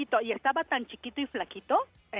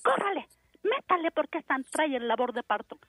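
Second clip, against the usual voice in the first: higher-pitched, hurrying command; retold urgent order; 5 semitones higher than usual. Sister to taxi driver as labor starts, mock urgent. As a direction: imitate someone rushing the driver.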